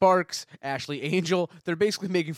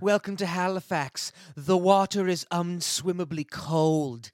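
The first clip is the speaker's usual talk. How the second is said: tourism ad voice; 4 semitones higher, 3 dB louder, slower than usual. Pretend. Mock tourism ad.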